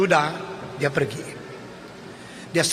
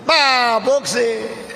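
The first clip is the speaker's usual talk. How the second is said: ordinary talk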